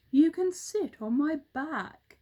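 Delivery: a hint of a proud bird; roly-poly bird. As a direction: offer the ride boastfully.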